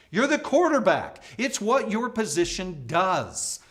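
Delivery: high, loud incredulous snap; exasperated retort. Acted. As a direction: set the whiner straight. Retort to whiner.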